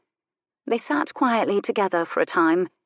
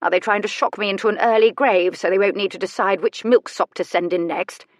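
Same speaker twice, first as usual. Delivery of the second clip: lightly voiced crotchety invalid; a hint of a haughty old aristocrat, grumbling; sardonic old lady; 2 semitones higher, 4 dB louder than usual. Elderly invalid lady's sardonic dialogue.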